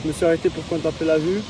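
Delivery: winded after the climb; puffing between words; out of breath. Real, not acted. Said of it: "je suis cramé".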